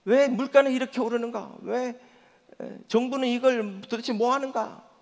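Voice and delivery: griping that climbs to a high, loud rant; 점점 높고 크게 터지는 불평; complaining. Retold or imitated. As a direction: work yourself up over coworkers, pay and prices. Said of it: "직장에 나가면".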